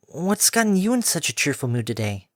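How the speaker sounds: puzzled and teasing; young filly voice. Acted. Filly asks.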